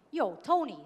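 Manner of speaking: quick New York street greeting, Sopranos style; New York accent, lightly done. Retold or imitated. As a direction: throw out a New York 'Yo, Tony'. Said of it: "that's a New York accent".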